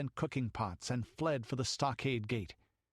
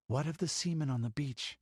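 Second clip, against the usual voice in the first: languid; 4 semitones higher than usual. Acted. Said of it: "asked Balessa languidly".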